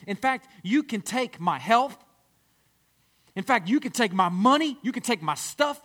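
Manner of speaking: fervent declaration. Acted. Worshiper surrenders everything to Jesus, fervent and loud. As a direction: build up the passion line by line.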